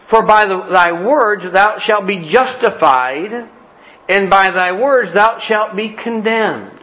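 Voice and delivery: preacher reading the Bible verse aloud; scripture reading. Acted. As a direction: read the verse with solemn weight.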